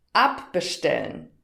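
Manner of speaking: abbestellen with ab stressed; stress shown on ab. Shown as a demonstration. Teacher asking the learner to listen again, ab stressed. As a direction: hit the ab in abbestellen. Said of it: "Hör noch mal".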